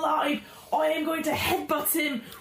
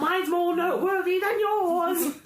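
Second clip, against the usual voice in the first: shouting taunt; 4 semitones higher than usual. Acted. Goblin taunting guards loudly.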